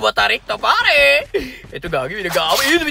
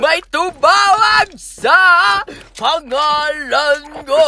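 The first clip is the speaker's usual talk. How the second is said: dramatic slow proclamation; much slower than usual. Pretend. Dramatic slow game callout.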